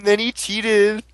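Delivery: mock whining. Friend mimics the whining excuse.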